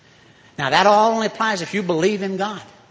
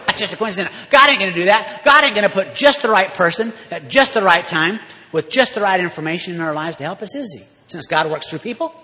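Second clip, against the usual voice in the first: sarcastic; 4 dB louder than usual. Acted. Sarcastic mock skeptic.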